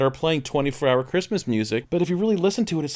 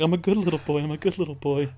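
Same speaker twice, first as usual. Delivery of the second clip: put-on higher-pitched goody-goody child; mock innocent boy; 4 semitones higher than usual. Son watching a racy movie with his dad, mock innocence. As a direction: play the innocent little boy, repeating it to himself.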